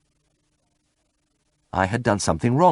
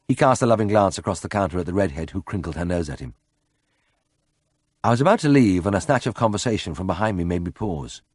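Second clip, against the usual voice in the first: plain reading voice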